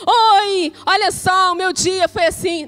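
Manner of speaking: over-bright acted chirpiness; mock cheerful greeting. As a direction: pretend to be thrilled to share your day. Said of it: "ninguém chega pra você triste e fala assim".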